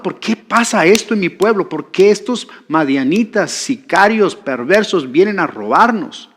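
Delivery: mildly angry acted complaint. Hiding farmer complaining about robbers, acted anger. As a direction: protest indignantly, as Gideon might.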